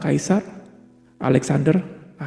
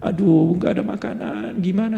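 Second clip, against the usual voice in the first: imitating a tearful complainer, softer; mock whining; 2 semitones higher, 3 dB quieter than usual. Ambassador complaining home to the one who sent him, mock whining. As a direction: act out a half-hearted, pitiful whine. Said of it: "setiap hari dia nangis".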